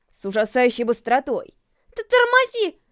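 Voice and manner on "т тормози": high stammering scream to brake; panicked yell. A narrator's reading. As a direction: shriek it in terror, stumbling on the first sound. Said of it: "завопила я".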